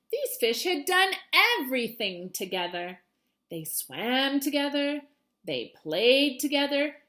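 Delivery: put-on storybook voice for a child audience; reading to children. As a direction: read it like a teacher to her class. Reading picture book aloud.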